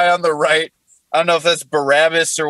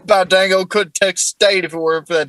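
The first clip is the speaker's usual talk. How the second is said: put-on southern accent. Comic voicing Jesus complaining on the cross, southern accent. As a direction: play it as a southern good old boy. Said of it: "What Jesus said on the cross in a southern accent".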